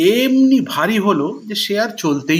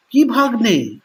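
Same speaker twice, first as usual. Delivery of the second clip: surprised; 5 semitones higher than usual. Acted. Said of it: "আশ্চর্য হয়ে জিজ্ঞেস করলো".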